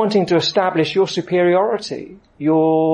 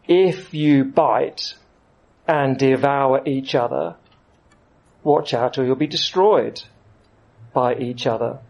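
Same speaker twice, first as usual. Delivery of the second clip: slow scripture reading; 3 semitones lower than usual. Shown as a demonstration. Preacher reading the verse slowly to the congregation. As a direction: read it very slowly, weighing each phrase. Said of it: "That's a very striking description".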